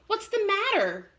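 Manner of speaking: a hint of a gentle mother asking; mother's question. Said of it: "his mother asked".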